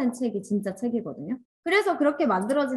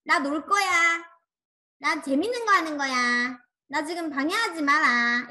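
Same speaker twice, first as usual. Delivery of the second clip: higher-pitched mock insistence; imitated firm declaration; 5 semitones higher than usual. Charity leader playing at the bazaar, imitated firm insistence. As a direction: announce it like someone not to be disturbed. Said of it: "근데 명확해요".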